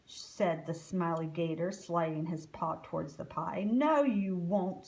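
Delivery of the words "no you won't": slow, loud snarl. Acted. Fattest gator snarling at the smiley gator, menacing. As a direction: growl the refusal. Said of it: "snarled the fattest gator".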